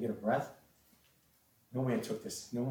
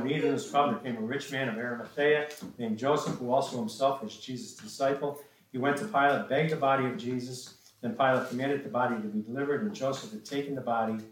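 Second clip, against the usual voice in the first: raised, emphatic Bible reading; scripture reading; 2 semitones higher, 4 dB louder than usual. Acted. Preacher reads the burial account to the congregation, emphatic scripture reading. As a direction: read the verses out firmly to listeners.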